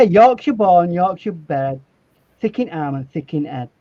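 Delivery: reciting a rhyme. Retold or imitated. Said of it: "Yorkshire rhymes are best".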